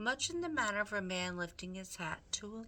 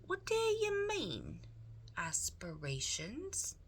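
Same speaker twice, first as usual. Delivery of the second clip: shouting; 6 semitones higher than usual. Acted. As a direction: bellow the question at him. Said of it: "shouted Meg".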